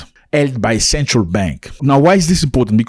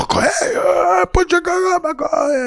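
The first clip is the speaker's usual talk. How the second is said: much higher, put-on thug voice; robber's demand; slower than usual. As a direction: bark the robber's order in a squeaky mock voice. Robber voiced in retold story.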